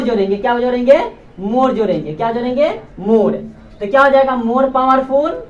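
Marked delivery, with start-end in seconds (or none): 4.4-5.4 slow drilled. Shown as a demonstration. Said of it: "teacher drills the form".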